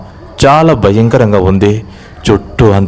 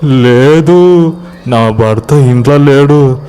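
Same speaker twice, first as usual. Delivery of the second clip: very slow, drawn-out higher wail; tearful lament; 4 semitones higher, slower than usual. Acted. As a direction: stretch each word in acted grief. Weeping wife answers villagers.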